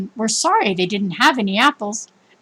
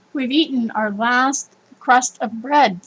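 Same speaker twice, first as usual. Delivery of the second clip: sadly; slower than usual. Acted. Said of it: "said the woman sadly".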